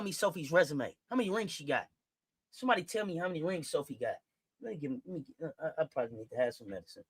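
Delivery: subdued. Real, not acted. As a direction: pull it back, talking low. Drops voice, calming himself.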